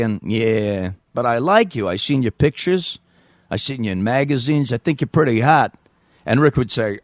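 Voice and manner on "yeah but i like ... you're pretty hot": sleazy New York flirt; New York accent. Acted. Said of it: "me doing a New York accent".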